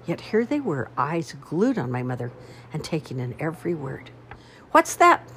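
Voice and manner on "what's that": loud, high yell of confusion. A narrator's reading. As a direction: shout it out, baffled. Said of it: "they would yell".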